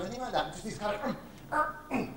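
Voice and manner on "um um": short, quiet, higher strained grunts; imitated effort of a struggle; grunts of exertion. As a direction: grunt as if heaving a weight. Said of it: "grunts of exertion".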